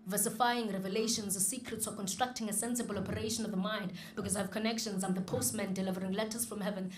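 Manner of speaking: steady spoken-word verse; poem recitation. Acted. Performs his poem.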